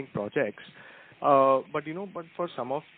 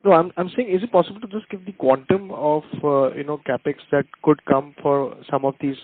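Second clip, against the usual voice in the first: repeated louder and clearer; 9 dB louder than usual. Real, not acted. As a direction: raise the voice so the other side hears. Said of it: "Will you say it again?".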